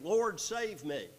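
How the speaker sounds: slow, high, loud plea; acted cry for help from scripture. A narrator's reading. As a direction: call out for rescue, drawing out each word. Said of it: "he cried out".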